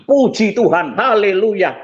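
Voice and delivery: exclaimed praise. Retold or imitated. Man hearing his victim did not die, exclaimed praise. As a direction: exclaim thanks on a sudden lift in pitch. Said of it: "Langsung saya ngomong gitu".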